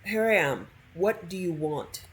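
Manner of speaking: curt, mildly rude demand. Pretend. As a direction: put a little rudeness into it. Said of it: "I'm gonna be just rude".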